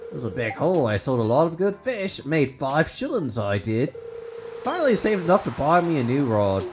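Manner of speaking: lightly voiced old sea dog; a hint of a salty sailor; gruff old fisherman. Voicing Willy the fisherman.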